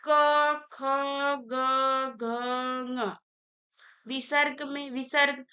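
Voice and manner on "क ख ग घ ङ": क, ख, ग, घ, ङ with a pause after each; teacher reciting throat consonants क to ङ, drawn apart; guttural letters demonstrated. Shown as a demonstration. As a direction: sound out क, ख, ग, घ, ङ one at a time from the throat. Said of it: "गर्दन के यहाँ पूरा बल जा रहा है".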